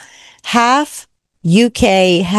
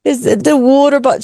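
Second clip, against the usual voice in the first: put-on British accent; 5 semitones higher, faster than usual. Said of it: "that was pretty good there on your part".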